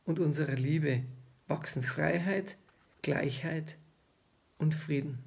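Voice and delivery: measured poetry reading with long pauses; poem recitation. Acted. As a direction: recite the poem line by line, pausing between phrases. Reads own poem aloud.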